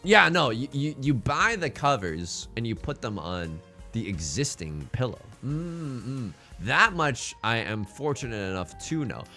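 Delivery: ordinary talk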